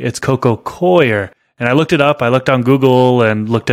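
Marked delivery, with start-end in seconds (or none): 0.0-1.3 "Coir" said as COY-er, drawn out; corrected pronunciation. Retold or imitated. Listener correcting how he says Coir, slow COY-er. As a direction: stretch "Coir" into two sounds, COY-er. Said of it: "somebody had corrected me".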